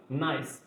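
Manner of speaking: "Nice" as a single syllable with silent final E; one syllable. Shown as a demonstration. Teacher showing learners the syllable count, "Nice" in one syllable. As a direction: say "Nice" in one beat, ending on S. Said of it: "Só tem uma sílaba".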